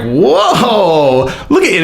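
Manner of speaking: high patronizing whoa; calm a raging partner condescendingly; mock soothing. Holding an angry partner's wrists, patronizing whoa. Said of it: "and you're like".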